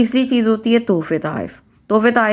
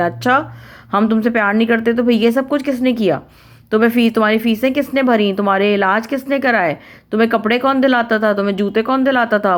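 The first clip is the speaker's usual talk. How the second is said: mock-indignant parent, pitch a bit raised; 4 semitones higher than usual. Parent reproaching a child for doubting their love, mildly indignant. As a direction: list it all off like a hurt, offended parent. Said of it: "فہرست گرانی شروع کر دیں".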